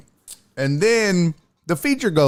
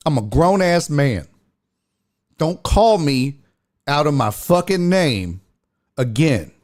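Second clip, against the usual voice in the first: stern warning; 3 semitones higher than usual. Retold or imitated. Comic confronting heckler over his name, stern and deliberate. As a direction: lay down the law, word by word.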